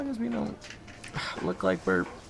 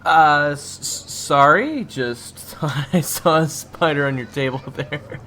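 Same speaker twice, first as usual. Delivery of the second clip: loud laugh breaking through stammered words; can't hold back the laughter, stumble through; nervous laughing fit; 3 semitones higher, 18 dB louder, slower than usual. Acted. Waiter Zach laughing on seeing his coworker, stammering.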